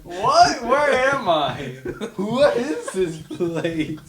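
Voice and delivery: hammed-up bewildered alien; mock confusion. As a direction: play lost and baffled. Acting confused alien, laughing.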